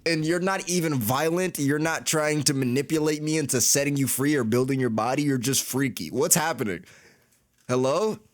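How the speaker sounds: high, disbelieving rant at the flirty robot; high incredulous rant. Real, not acted. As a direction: squeak out the disbelief at the freaky robot.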